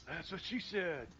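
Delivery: Beavis-like voice. Acted. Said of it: "The little guy goes".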